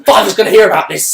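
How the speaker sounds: snooty brat. Retold or imitated. Mocking the same snooty character.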